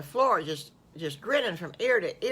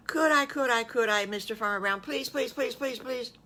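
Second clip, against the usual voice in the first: put-on higher, eager child voice pleading; a boy begging to go to the barn; begging little wolf; 6 semitones higher than usual.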